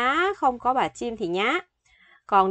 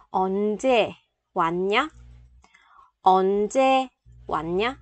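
whisper. Shown as a demonstration. Teacher repeating drill phrase.

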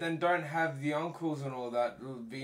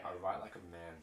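lower, softer mock man voice; mock manly voice; 8 semitones lower, 10 dB quieter than usual. Echoing a commenter in a mock manly voice. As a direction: drop it low like a gruff man.

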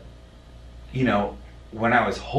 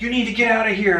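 high, loud shout, imitating hospital staff; retold shouting; 10 dB louder, faster than usual. Hospital staff ordering a patient's grandson out, shouted. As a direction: re-enact an urgent order at full volume. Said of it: "I was yelling at people".

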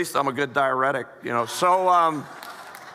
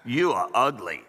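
parrot voice; 4 semitones lower than usual. Acted. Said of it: "He said".

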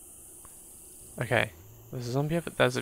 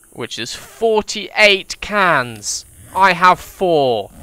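slow, louder incredulous tally; exasperated disbelief; 2 semitones higher, 5 dB louder, much slower than usual. Real, not acted. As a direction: stress the hopeless numbers. Realising huge shortfall.

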